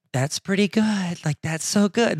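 slow mock praise, imitating mom; mom's disagreeing voice. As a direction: imitate mom voicing someone against her, drawn out. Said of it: "But if she's like".

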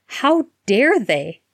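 fierce, slow, indignant cry. Acted. Harry defending his godfather at the table, fierce cry. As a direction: spit it out fiercely. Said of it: "Harry cried fiercely".

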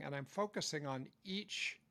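ordinary talk, nothing marked

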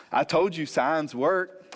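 slow, teasing I-told-you-so; mock gloating. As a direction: gloat playfully, drawing the words out. Jokingly imagined gloating to wife.

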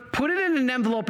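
ordinary talk

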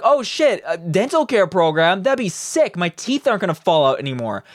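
high-pitched, excited mock public; imagined delighted reaction. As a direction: act out someone pleasantly surprised. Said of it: "people would be like".

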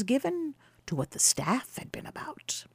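hushed whisper to close the sentence. A narrator's reading. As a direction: lean in and breathe it. Storyteller hushes the aside.

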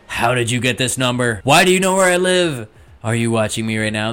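mock paranoid fifties phone owner; hammed-up suspicion at a stranger on the line; panicked caller. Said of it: "being like".

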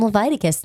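Leviticus said luh-VYE-tuh-kus, the Levi way; Levi-style Leviticus. Shown as a demonstration. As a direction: Leviticus with a long VYE second syllable. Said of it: "it just sounds cooler".

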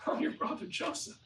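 high voice dropping to a near-whisper; imitated tearful reveal. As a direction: act out a weeping confession. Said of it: "he just starts to cry. He just starts to weep".

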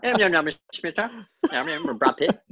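put-on fast mumbled pikey accent as Brad Pitt in Snatch. Podcaster doing Brad Pitt's Snatch pikey accent for friends. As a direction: run the words together in a thick pikey accent like Snatch. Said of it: "I can do that accent the rest of the podcast".

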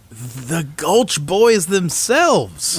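slow mock-grand "The Gulch Boys themselves"; grand announcement.

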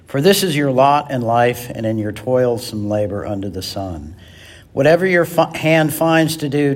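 steady, measured reading of the passage; scripture reading. Acted. Preacher reading Ecclesiastes to the congregation, measured scripture reading. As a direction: read it aloud to the congregation, line by line.

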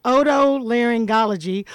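otolaryngology said with a triumphant shout; proud pronunciation. Real, not acted. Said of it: "Oh, are you".

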